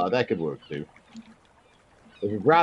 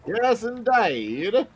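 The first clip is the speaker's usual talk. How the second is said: slow, much higher Cockney drawl; drawn-out Cockney voice; Cockney accent; 12 semitones higher, 3 dB louder, much slower than usual. Acted. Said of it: "Stay in it".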